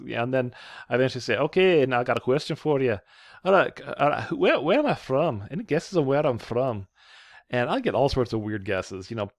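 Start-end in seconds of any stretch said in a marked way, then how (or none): 1.4-6.9 stupid mock Scottish brogue; fake Scottish accent. Professor quizzing new students in a fake Scottish accent. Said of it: "fake Scottish accent".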